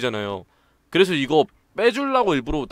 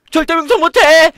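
slow furious roar; 14 dB louder than usual. Acted. Enraged character yells.

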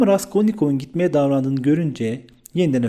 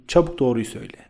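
usual speaking voice

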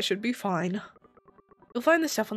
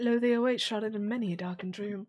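lightly voiced mystic fortune teller; theatrical, lofty seer reciting a riddle; all-knowing oracle. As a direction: intone it like a grand prophecy.

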